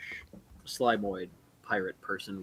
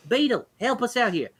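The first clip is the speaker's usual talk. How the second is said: calling out; 12 semitones higher, 4 dB louder than usual. Acted. Elf calls out to Beetle.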